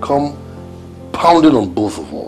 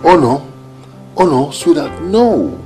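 raised, pleading "no"; alarmed objection; 6 semitones higher, 5 dB louder than usual. Acted. Spouse objecting to a careless attitude, alarmed. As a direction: protest urgently, pitch climbing.

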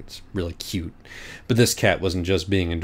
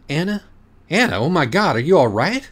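alarmed panic; 9 semitones higher, 8 dB louder than usual. Acted. Friend collapses suddenly.

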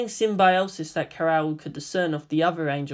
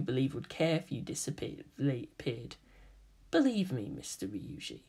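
menacing whisper; 5 dB quieter than usual. Acted. Kaoru menacingly exposes Kaji.

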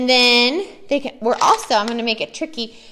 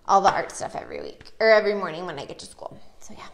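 whispered aside; 4 semitones lower, faster than usual. Real, not acted. Aside about daily prep chores.

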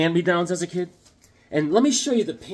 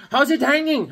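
pitched-up buddy greeting; Bobby's voice; 10 semitones higher, 3 dB louder than usual. Retold or imitated. Buddy greets him over coffee, high and casual. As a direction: toss it off high like a pal. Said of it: "He's like".

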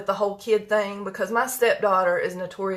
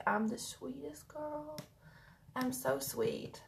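soft, slow, higher little-dog voice; dog's voice; 6 semitones higher, 14 dB quieter, slower than usual. Pretend. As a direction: speak for the sweet dog.

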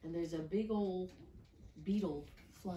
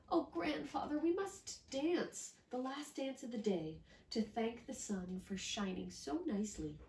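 put-on higher, hurried child insisting; a child who cannot sleep yet; little girl voice; 5 semitones higher than usual. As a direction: rattle it off like an eager little girl. Miyuki voice.

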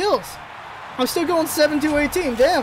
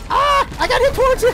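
startled yelp; 13 semitones higher, 6 dB louder than usual. Real, not acted. Knocked back mid-fight, yelping.

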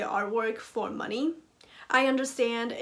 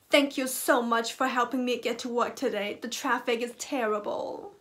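James Corden impression. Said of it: "that was my James Corden impression".

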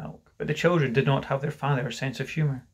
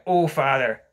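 loud, falling echo of her words; demanding quote; 5 dB louder than usual. Acted. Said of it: "Mister Darling demanded".

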